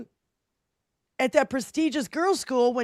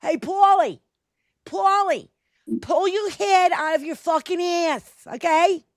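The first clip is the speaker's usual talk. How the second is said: heavy mock New York accent; 3 semitones higher than usual. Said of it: "It's my terrible New York accent".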